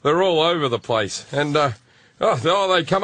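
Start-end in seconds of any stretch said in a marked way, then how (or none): 0.0-1.3 imitating dad's offhand, slightly slowed tone; forced casual. Imitating dad telling his son about Hong Kong, forced casual. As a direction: mimic dad acting like it's normal. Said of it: "he's trying to talk like it's normal".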